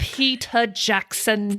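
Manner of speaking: put-on slow Kiwi accent on Peter Jackson; New Zealand accent. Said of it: "that's a good New Zealand accent".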